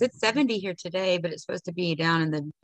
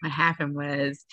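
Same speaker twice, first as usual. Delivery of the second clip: echoing the dad's phrase; 5 semitones lower, slower than usual. Retold or imitated. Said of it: "let me tell you what happened was".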